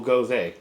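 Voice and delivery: "gose" said as two syllables, GO-zuh, on purpose; deliberate mispronunciation. Shown as a demonstration. Signing off to viewers, teasing go-zuh. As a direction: slip in "gose" as go-zuh as a knowing jab. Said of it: "I said it that way on purpose".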